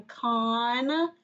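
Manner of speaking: "construction" slow, part by part; broken into syllables. Shown as a demonstration. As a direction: stretch each syllable of "construction". Breaks word into its parts.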